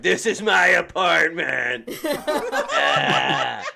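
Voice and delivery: a lightly voiced resigned kid, laughing through it; slow and laughing, a kid already beaten by life; hint of a glum child with a giggle; weary kid. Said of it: "he's like".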